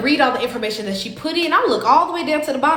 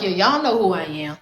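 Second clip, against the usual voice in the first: lower, dry sarcastic jab; 6 semitones lower than usual. Retold or imitated. Joking sarcastically to the booking clerk, dry and low. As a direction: make light of it with sarcasm. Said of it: "So I'm being sarcastic".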